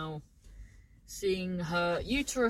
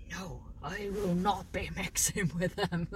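Irish mum; 3 semitones lower than usual. Retold or imitated. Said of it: "proper working class Irish".

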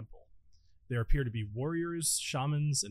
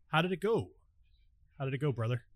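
lizard voice. Acted. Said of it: "I have to work on my lizard voice".

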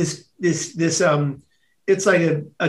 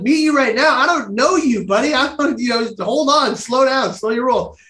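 higher-pitched, lightly acted pushback; taken aback; 5 semitones higher than usual. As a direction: imitate someone putting the brakes on a stranger. Sister rebuffs him, acted out.

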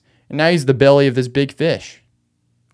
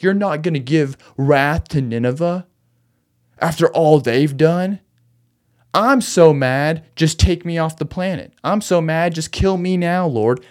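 raised, slowed complaint in Jonah's voice, half-hearted anger; mock furious Jonah; 4 semitones higher than usual. Jonah, furious at God's mercy, in a mildly raised mock rant. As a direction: play an exasperated Jonah begging to die. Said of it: "He's furious about it".

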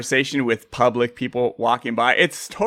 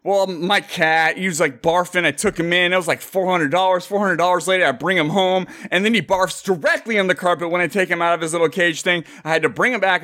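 higher-pitched rambling account; oversharing customer; 5 semitones higher than usual. Acted. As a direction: spill every detail to a stranger at the till. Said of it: "the guy who'll spill all of it".

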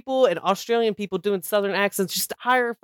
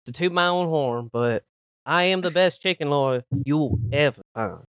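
honeyed southern lawyer drawl; 2 semitones lower than usual. Acted. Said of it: "I'm just a humble Southern lawyer" voice".

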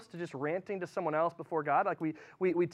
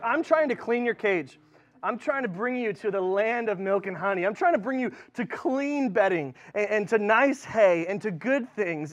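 pleading with pets; 2 semitones higher, 5 dB louder than usual. Retold or imitated. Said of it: "To my guinea pigs, I'm like".

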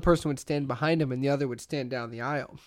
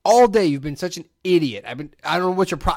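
mock berating; 3 semitones higher, 6 dB louder than usual. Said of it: "you start berating them".

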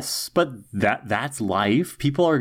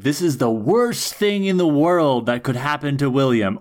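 hammed-up horror with swooping, raised pitch; mock melodrama; 4 semitones higher than usual. Podcast host sending up a man's heartbreak, mock melodrama. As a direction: overplay the catastrophe, drawing out the "Oh my God". Mocking the show's overblown tragedy.

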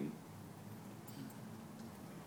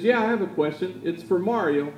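raised, higher voice projecting across a big hall; woman in the audience calls out, raised and high; calling out from the crowd; 8 semitones higher, 6 dB louder than usual. Retold or imitated. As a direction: call out your question to the stage. Woman in crowd asks question.

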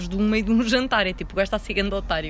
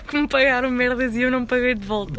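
laughing while confessing; 4 semitones higher, 7 dB louder than usual. Real, not acted. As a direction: giggle through the apology.

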